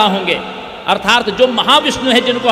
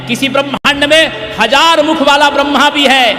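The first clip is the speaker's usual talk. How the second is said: raised, ringing sermon delivery; emphatic preaching; 4 semitones higher than usual. Real, not acted. Building list of many-headed Brahmas.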